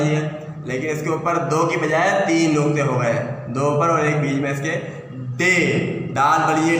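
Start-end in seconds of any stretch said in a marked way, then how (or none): 5.4-5.5 teacher says "डे" clearly with a retroflex d; letter name demo. Shown as a demonstration. Teacher reads a Sindhi letter aloud to students, careful demo. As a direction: model the letter "डे" for the class. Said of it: "डे इसका तलफ़्फ़ुज़ है".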